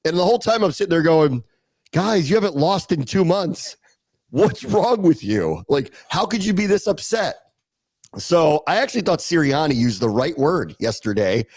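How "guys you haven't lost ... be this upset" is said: incredulous appeal, pitched a little up; mildly acted-out bafflement at their upset; exasperated disbelief. Host voicing his reaction to an upset team, exasperated.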